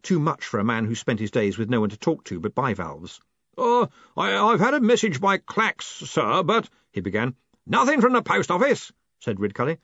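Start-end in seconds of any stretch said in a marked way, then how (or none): 3.6-6.7 high, far-off timid voice; nervous voice from far away; timid distant voice. A narrator's reading. Collarbone voice. 7.7-8.9 booming. A narrator's reading. Ridcully booming.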